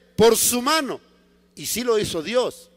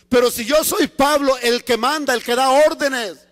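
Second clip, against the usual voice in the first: higher, self-important objection; Paul's indignant protest; 4 semitones higher, 4 dB louder than usual. Acted. Paul, used to giving orders, objects to God indignantly. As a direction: build insistently to the last word.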